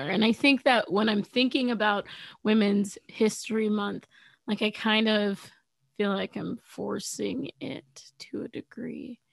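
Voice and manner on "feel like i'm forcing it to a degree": whisper. Real, not acted. Unvoiced low aside.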